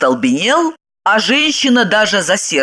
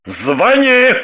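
higher, insistent command; snapped order; 4 semitones higher than usual. A narrator's reading. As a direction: raise your voice to hurry her along. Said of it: "прикрикнул он". (прикрикнуть)

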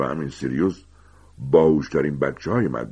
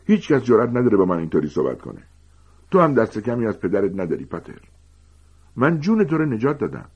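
higher, louder seething rage; furious Snape; 6 semitones higher, 4 dB louder than usual. A narrator's reading. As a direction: cut him off and tear into him. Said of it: "اسنیپ به میان حرفش دوید".

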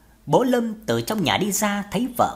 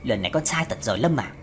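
lower, resigned father; understated, weary disappointment; sighing; 7 semitones lower, 3 dB quieter than usual. A narrator's reading. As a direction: say it on a mild sigh. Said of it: "Bố Lâm cũng thở dài nói".

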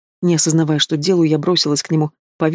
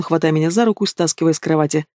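ordinary delivery

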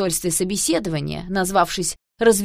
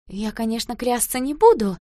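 ringing voice; 5 semitones higher, 5 dB louder than usual. A narrator's reading. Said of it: "звенящим голосом сказала Маруся".

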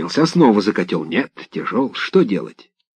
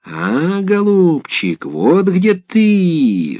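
exclaiming; 7 semitones higher, much slower than usual. A narrator's reading. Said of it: "вскрикнул дед".

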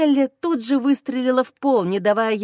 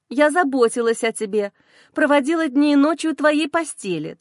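shrieking with hatred; 3 semitones higher than usual. Acted. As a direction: spit it out in raw hatred. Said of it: "Взвизгнула она с ненавистью". (визгливо, с ненавистью)

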